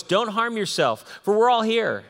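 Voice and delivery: a read-aloud call that rises to a loud cry. A narrator's reading. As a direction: cry out to stop the jailer. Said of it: "Paul cried out with a loud voice".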